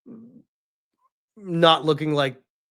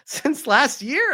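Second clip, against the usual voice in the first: mock wife; 8 semitones higher, slower than usual. Wife accusing him.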